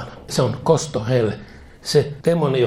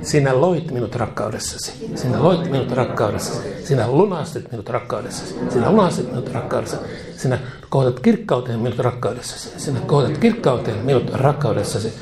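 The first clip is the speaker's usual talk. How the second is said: led prayer. Acted. Preacher leads prayer to repeat.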